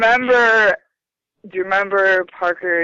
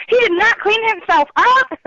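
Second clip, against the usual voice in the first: higher-pitched mock-appalled mom; imitating mom; 10 semitones higher, 3 dB louder than usual. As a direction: quote a mother's emphatic disbelief. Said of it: "My mom just said".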